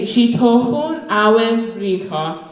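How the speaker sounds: Shitohun Awe Bricha drawn out slowly; slow model phrase. Shown as a demonstration. Teaching the New Year greeting to the crowd, slow. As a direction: give them the greeting at half speed. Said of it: "that's how you say".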